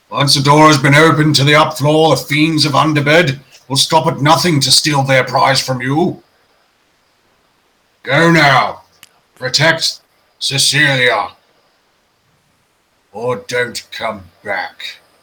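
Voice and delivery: massive bear character voice. In a role-playing game, the storyteller speaks as a massive brown bear toy. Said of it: "the brown bear just sort of like stoops down on the shelf and sort of like, he, like for somehow he's managed to stretch himself, or just he's that massive".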